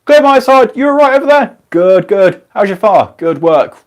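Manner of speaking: loud calls over engine noise, high and strained; hammed-up shouted crew calls over a roaring engine; shouting on the footplate. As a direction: yell across the cab to your fireman. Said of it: "me just going".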